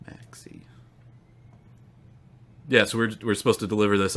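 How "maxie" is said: unvoiced whisper. Real, not acted. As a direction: breathe the name quietly. Whispered name.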